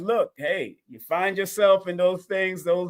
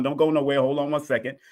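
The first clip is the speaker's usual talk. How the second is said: usual speaking voice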